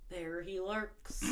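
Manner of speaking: slow, hushed creepy crone; cranky old hag. Pretend. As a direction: lure them in like a spooky old lady. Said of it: "cranky old bitches you pass in the scary movie".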